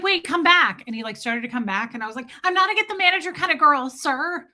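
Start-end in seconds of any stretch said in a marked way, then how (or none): 0.0-0.8 high, loud panicked call; freaking out. Retold or imitated. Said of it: "started, like, freaking out". 2.4-4.5 high, rushed mock-panicked protest; freaking out. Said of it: "started, like, freaking out".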